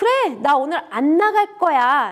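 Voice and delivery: put-on slow, loud, defiant childlike stress on 그래.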